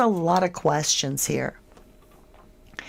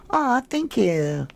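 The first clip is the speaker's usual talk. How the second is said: slow, high, tender "aw"; touched thanks; 6 semitones higher, slower than usual. Real, not acted. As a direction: melt a little at the compliment. Touched by viewer compliment.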